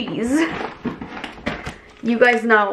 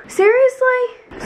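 exasperated seriously; 14 semitones higher, much slower than usual. Retold or imitated. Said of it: "I'm like".

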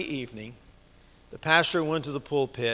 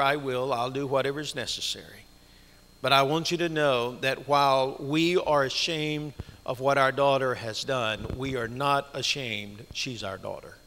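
tearful pastor; 2 semitones lower than usual. Retold or imitated. Weeping pastor tells congregation.

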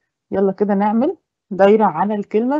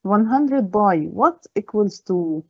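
slow read-out; much slower than usual. Shown as a demonstration. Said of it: "reads the problem to pupils".

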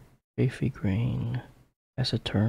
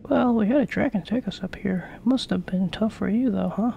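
lightly voiced boy hero; 11 semitones higher than usual. Voices Ollie in dialogue.

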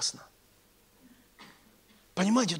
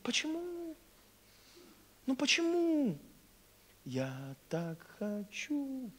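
soft, high wail sinking to a slow murmur; mock-heartbroken pleading; plaintive whine; 4 semitones higher, 11 dB quieter, slower than usual. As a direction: lament it like a disappointed child. Acts sorrow as service ends.

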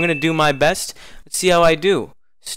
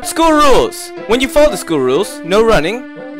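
announcer voice; 3 semitones higher than usual. Acted. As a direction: read the rules like a hall announcer. Reading rules in announcer voice.

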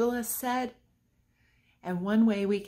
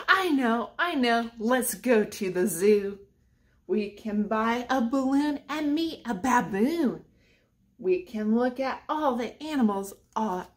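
sing-song picture book reading; reading to children. Acted. Teacher reads a rhyming book to children, sing-song. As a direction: read the rhyme aloud to the kids.

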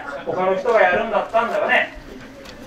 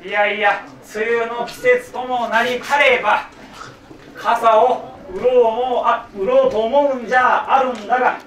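slow, stately archaic declamation; formal kyogen recitation; 2 semitones higher, slower than usual. Acted. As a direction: proclaim like a stage samurai. Continues archaic stage speech.

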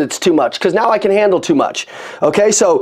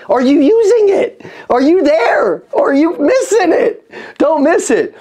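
rising, insistent questions to the crowd; hyped-up challenge to the viewers; urgent call-out; 7 semitones higher, slower than usual. Real, not acted. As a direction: push them, don't let them miss it. Pressing the audience to join.

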